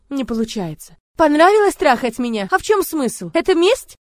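furious screaming. Acted. Heroine screaming accusations at Murat, furious. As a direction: hurl every word at him.

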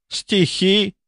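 high, disdainful "verses?"; scoffing. A narrator's reading. Baroness mocking a rival's poems, scoffing. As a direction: snort out the word in scorn. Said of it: "фыркнула баронесса".

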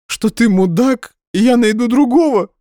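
bitter sarcasm. Acted. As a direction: sneer it at him.

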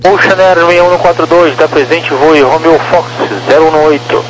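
air traffic control radio. Real, not acted. Controller clearance over radio.

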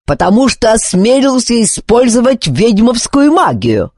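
yell. Acted. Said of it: "заорал Друд-командор".

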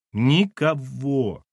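slow, drawn-out tormented denial; agonized. Acted. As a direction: squeeze the word out painfully. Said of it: "мучительно выдавила она".

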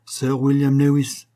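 each word of the name drawn out slowly. Acted. The Hindu answering the Frenchman, slowly. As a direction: let the name fall slowly and deliberately. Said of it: "dit-il lentement".

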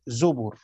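zubur, b given a damma. Shown as a demonstration. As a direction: say zubur with two u vowels. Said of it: "بضم الباء". (زُبُر بضم الباء)

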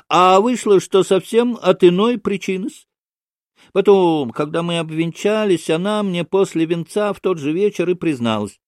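high, lilting, amused confession; ingratiating storyteller figure. Acted. Maksimov tells of his bride's confession, amused and ingratiating.

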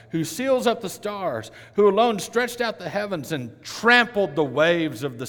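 loud, rising proclamation of scripture; preaching scripture. Acted. Preacher proclaiming Job to the congregation, loud and lifted. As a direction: read it like thunder from the pulpit. Reads Job aloud in full voice.

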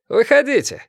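a sharp high shout. A narrator's reading. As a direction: call them out of the building. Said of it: "крикнул он Олегу".

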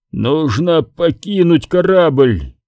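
slow, struggling for air; each word pushed out slowly; laboured breathing. Acted. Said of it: "Клод с трудом втянул воздух, будто через трубку". (медленно, с трудом дыша)

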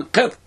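"قط" ending on a vowelless ط; سكون الطاء. Shown as a demonstration. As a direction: say "قط" with a closed, unvowelled final ط. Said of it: "بسكون". (نطق "قط" بطاء ساكنة)

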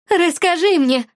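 high and loud, building, slow; frantic demand. A narrator's reading. The possessed friend screaming at Katya to tell, high and loud. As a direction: beg and order at once, rising.

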